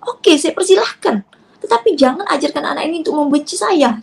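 retold outburst, pleading and indignant; angry confrontation. Mother confronting her ex in-laws over her child, angry. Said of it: "Marah saya pada saat itu".

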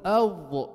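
أض with a heavy, full-mouthed dad; emphatic letter. Shown as a demonstration. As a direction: hold أض thick and emphatic. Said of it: "لما تقول".

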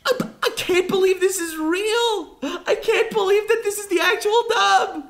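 real laughing amazement; laughing disbelief. Real, not acted. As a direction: laugh through it, can't believe it.

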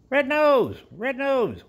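very high excited squeal; squeaky praising a dog. Real, not acted.

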